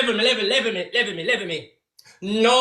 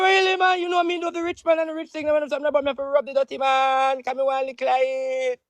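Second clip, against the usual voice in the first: lightly voiced higher man pleading his case; higher mock voice of a man begging Auntie; Marky Mark; 4 semitones higher than usual. Retelling what Marky Mark told Auntie, higher mock voice. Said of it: "Marky Mark say".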